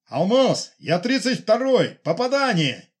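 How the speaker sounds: high, loud pilot calling a hit; excited radio report. Acted. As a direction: shout the hit, thrilled. (радостный крик пилота в эфир)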